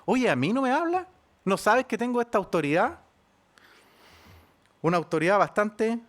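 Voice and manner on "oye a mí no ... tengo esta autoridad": Pilate's outburst, only a little raised; lightly voiced angry governor demanding an answer; mock angry shout. Pilate demands an answer from the silent Jesus, mock angry. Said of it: "le grita".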